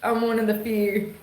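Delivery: slow, stretched North Carolina twang; Southern twang. Shown as a demonstration. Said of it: "still got that twang".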